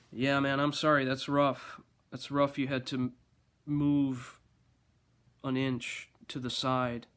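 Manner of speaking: mock-sympathetic, dry sarcasm; sarcastic. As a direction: fake pity, dripping sarcasm. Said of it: "I said something sarcastic".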